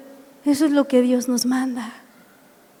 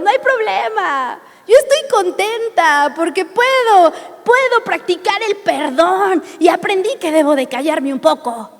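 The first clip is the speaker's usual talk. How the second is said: higher, lightly voiced churchwoman at peace; sister Alma's tone; 5 semitones higher than usual. Pastor imitating Alma forgiving her attackers, higher and light. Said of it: "Así en su tono de voz".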